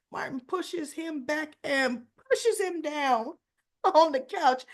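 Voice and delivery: real laughter breaking through the narration; laughing while telling. Real, not acted. Retelling the soap fight to viewers: laughing. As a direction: laugh through it, amused by the fall.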